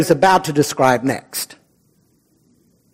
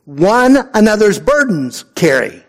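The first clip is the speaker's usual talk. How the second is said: Yoda-like phrasing; 5 semitones higher than usual. Retold or imitated. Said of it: "Paul sounds a little bit like Yoda".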